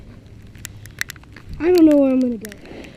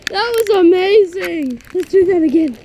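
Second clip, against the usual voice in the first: loud and thrilled; 7 dB louder, faster than usual. Real, not acted. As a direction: call it out, buzzing. After sled run.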